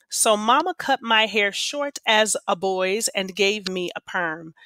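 lively read-aloud for a class, voicing the kids lightly; story read aloud. A narrator's reading. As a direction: read the story to your students, drawing them in. Teacher reads novel aloud.

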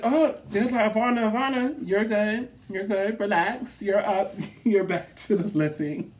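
high, soothing, lightly mocking nurses. Nurses waking her after surgery, mock soothing. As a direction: coax her awake like nurses.

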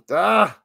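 short loud "ah"; sudden cry. Real, not acted. Commentator reacting during the point, sudden cry. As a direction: let out one sharp yelp.

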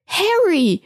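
high, bright-eyed cry of his name; glad surprise. Acted. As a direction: call out Harry with a delighted jolt. Hermine opens door, sees Harry.

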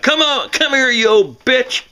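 high yelling threat; husband screaming. Retold or imitated. Husband chasing his wife, high mock yell. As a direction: yell after her as you chase. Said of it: "hear him scream".

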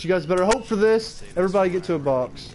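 hyped up. Shown as a demonstration. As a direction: pump the crowd up. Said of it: "repeated louder".

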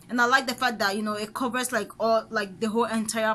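slightly muffled by fingers; fingers on lips. Real, not acted. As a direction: hand against mouth. Seen 0: Fingers press sheet mask onto upper lip while speaking.

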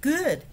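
响亮的 Good; emphatic good. Shown as a demonstration. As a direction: toss out "Good." as a strong exclamation. Exclamation inside verse.

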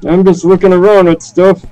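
put-on stereotypical old man rambling; lightly voiced confused grandpa. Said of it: "the confused old man around the server".

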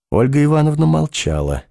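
ordinary delivery, nothing marked

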